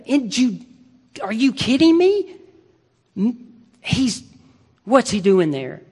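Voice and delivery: can't believe he went to Judea; incredulous outburst. Acted. Preacher voicing the sisters' disbelief at Jesus' absence, incredulous.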